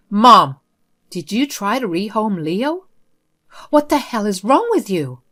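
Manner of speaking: loud burst on "Mom", then angry demand; furious son. Acted. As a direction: confront her in outrage. Son confronts mother in fury.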